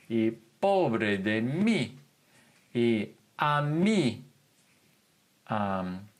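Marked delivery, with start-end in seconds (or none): 0.6-1.9 "pobre de mí" slow, leaning on "mí"; emphatic mí. Shown as a demonstration. Teacher demonstrating stressed mí in a sorry sentence, slowly. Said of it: "a slight emphasis on it". 3.4-4.2 "a mí" pitched up, stress on "mí"; emphatic mí. Shown as a demonstration. Teacher showing stressed mí to her class, higher. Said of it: "a slight emphasis on it".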